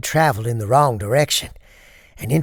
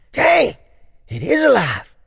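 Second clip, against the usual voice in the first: high and loud, surprised but unafraid; startled but fearless; calm surprise; 14 semitones higher, 6 dB louder than usual. Acted. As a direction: sound amazed, not scared at all. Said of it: "in a type of surprise void of fear".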